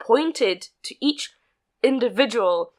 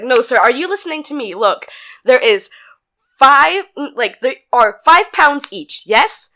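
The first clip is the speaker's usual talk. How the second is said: firm, patronising; 6 dB louder than usual. Retold or imitated. Staff explaining firmly.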